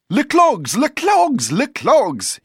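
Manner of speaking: desperate tourist shouting at a foreigner; crying out. A narrator's reading. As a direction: hammer the word home in exasperation. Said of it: "he cried".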